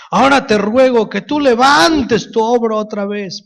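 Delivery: 높고 큰 소리로 열렬하게 기도하듯; 간절하게 힘주어 주님께 외치듯; vehement prayer. Retold or imitated. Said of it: "pero con una vehemencia".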